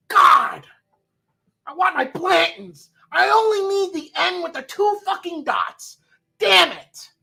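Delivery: high-pitched hammed-up tantrum; mock furious tater. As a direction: rage like a whisky hunter who just missed the last bottle. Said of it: "impression of a tater who saw".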